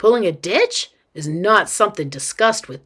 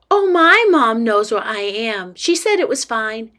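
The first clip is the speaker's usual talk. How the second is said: put-on slightly raised kid voice; breezy little girl; 2 semitones higher than usual. Girl assures dad her mom knows, breezy kid voice. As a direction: brush off the worry like a child.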